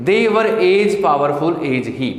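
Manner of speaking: very slow, word by word; slow classroom dictation. Shown as a demonstration. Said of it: "teacher dictates slowly".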